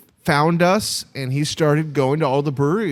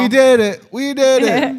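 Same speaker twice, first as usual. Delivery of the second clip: excited; 9 semitones higher, 5 dB louder than usual. Real, not acted. Celebrating end of episode.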